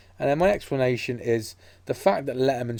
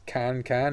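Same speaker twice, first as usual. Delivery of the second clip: CAN CAN picked out from the sentence; stress on CAN CAN; 2 semitones higher than usual. Retold or imitated. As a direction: land deliberately on CAN CAN. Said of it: "he puts emphasis on that".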